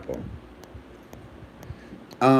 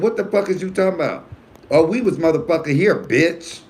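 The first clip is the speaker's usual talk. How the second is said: high, loud, indignant retort; derogatory outburst; 8 semitones higher, 4 dB louder than usual. Retold or imitated. Man in checkout line retorting to cashier, derogatory and heated. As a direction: imitate an affronted customer cussing someone out. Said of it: "see, that is when it's derogatory".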